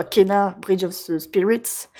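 slow English title in a French accent; self-mocking French accent on an English name. Real, not acted. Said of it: "avec mon magnifique accent".

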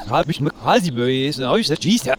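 reversed speech; played backwards. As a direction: talk as if the tape runs backwards. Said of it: "On dirait qu'il parle à l'envers".

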